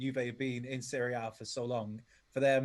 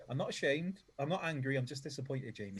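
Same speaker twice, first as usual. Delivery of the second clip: mock stern dad, softer and let down; a hint of a let-down father scolding; disappointed dad; 4 dB quieter than usual. Teasing the host like a disappointed father, softly. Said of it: "God, you sound like my dad".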